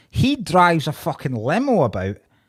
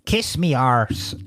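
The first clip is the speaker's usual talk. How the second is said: slow mock stage-Irish accent; bad film Irish; 4 semitones lower, slower than usual. Comedian quoting actor's first argument, bad film Irish accent. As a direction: put on a drawn-out fake Irish accent. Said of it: "he says various things ... where he goes".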